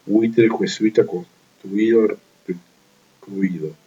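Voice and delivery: stretched out, syllable by syllable; slow down so students hear the diptongo; slow example words. Shown as a demonstration. Teacher slowly reading construido and recluido as examples.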